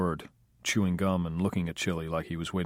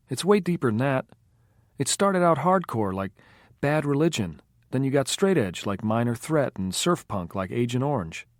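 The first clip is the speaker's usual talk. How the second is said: voiced Tiffany, eager; 6 semitones higher, 3 dB louder than usual. A narrator's reading. Tiffany argues punk history.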